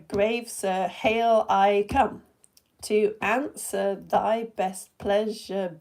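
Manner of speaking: slow, syllable-by-syllable scansion from "All hail" to "to ride"; laboured iambic beat, landing on "hail", "fly", "swim", "ride"; chest-tapping beat. Shown as a demonstration. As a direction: tap out "All hail, great master" in da-DUM pairs. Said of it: "I'm doing the chest pokey thing".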